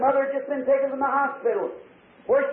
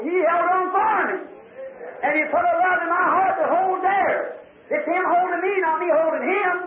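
full-voiced revival preacher, pitched up; fervent preaching. Preacher assuring the congregation they are held, fervent preaching.

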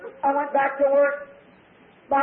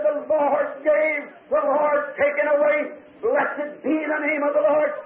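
solemn recitation; slower than usual. Retold or imitated. Retold scripture over dying daughter.

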